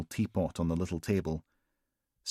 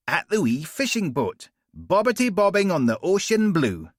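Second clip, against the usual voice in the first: put-on much higher sing-song, like to a toddler; sing-song baby talk; 10 semitones higher, 4 dB louder than usual. Steele mocking Logan in sing-song toddler talk. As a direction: talk down to him like a small child. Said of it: "high-pitched sing-song tone usually reserved for small children".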